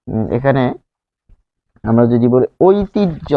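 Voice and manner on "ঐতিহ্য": ঐতিহ্য slowly as "oi-tij-jho"; careful pronunciation. Shown as a demonstration. Teacher gives learners an example word, careful pronunciation. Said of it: "কিন্তু উচ্চারণ কি?".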